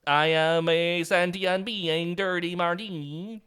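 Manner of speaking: slow mechanical robot, half-joking. Pretend. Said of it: "pretend to be a robot".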